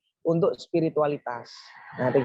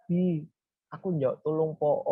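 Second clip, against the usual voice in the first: expressive plea. Shown as a demonstration. Showing how to ask a friend for help, expressive pleading. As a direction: plead for help, stretching the last word. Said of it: "intonasinya, volumenya, jedanya itu ya pasti kita gunakan juga".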